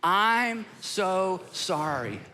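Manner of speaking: very slow apology, drawn out; slow sincere apology. Shown as a demonstration. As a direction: let the words sit. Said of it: "we gotta be real quiet".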